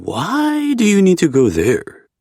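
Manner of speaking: playful friend voice. A narrator's reading. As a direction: tease him with a grin. Zev's voice, narrator voiced.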